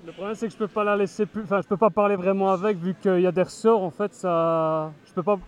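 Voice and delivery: muffled behind mask; through a face mask. Real, not acted. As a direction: voice dampened by a costume mask. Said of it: "tu as le masque sur toi".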